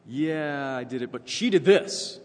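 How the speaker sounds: loud, defensive husband pinning it on her; mock Adam protesting and pointing at her; blame-shifting husband. Husband pushing the blame onto his wife, loud and defensive.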